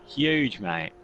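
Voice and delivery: broad Australian drawl on huge, mate; Aussie accent. Pretend. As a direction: lay on a thick Aussie accent. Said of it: "I'm doing this in my best Aussie accent".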